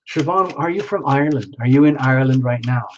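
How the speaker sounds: lightly put-on Irish accent; attempted Irish accent. Card reader asking a viewer about home, attempted Irish accent. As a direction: have a go at an Irish lilt. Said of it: "trying to put on my best Irish accent".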